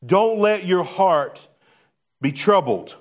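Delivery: firm, emphatic reprimand; harsh rebuke. Acted. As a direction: cut him off with a stern order. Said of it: "That sounds kinda harsh from Jesus".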